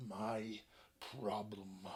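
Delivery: very low, soft, slow dragon. Acted. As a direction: drawl it out, uninterested. Bored dragon dismisses them.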